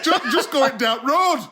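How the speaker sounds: slow Yorkshire, going down road; drawn-out Yorkshire, laughing; Yorkshire accent. Shown as a demonstration. Micah repeats his Yorkshire line, slow Yorkshire accent.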